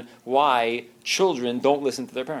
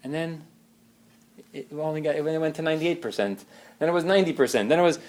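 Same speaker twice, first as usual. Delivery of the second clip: higher, louder rising lament; hurt spouse; 5 semitones higher, 3 dB louder than usual. Retold or imitated. Neglected spouse complaining to partner, rising hurt. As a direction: plead like a neglected wife.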